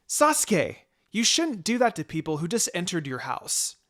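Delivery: put-on startled sitter scolds a prankster child; startled scolding. Babysitter scolds the boy who scared her, startled and loud.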